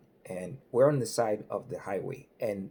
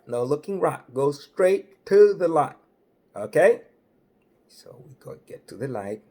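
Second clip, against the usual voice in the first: firm, louder cop giving instructions; walk him through it like a patrolman; hint of a booming Southern cop; lightly voiced trooper; 2 semitones higher, 5 dB louder than usual. Trooper escorts him to the car.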